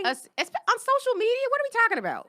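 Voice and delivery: high, disbelieving question; incredulous. Real, not acted. Incredulous at social media.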